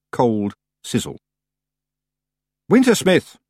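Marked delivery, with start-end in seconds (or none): 2.7-3.4 high, louder summoning shout. A narrator's reading. Tiffany calls the Wintersmith and waits for reply, shouting. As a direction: shout the name into the open. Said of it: "she shouted".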